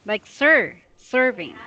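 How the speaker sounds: "sir" then "serving", both opening on a clean s; modelled s sound. Shown as a demonstration. Teacher showing student the s in "sir" and "serving", clearly modelled. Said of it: "it's not sh sound, it's s".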